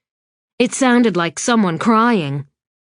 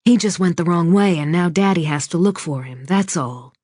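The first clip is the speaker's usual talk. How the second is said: soothing insistence; 4 semitones lower than usual. Acted. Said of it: "Barbara insisted".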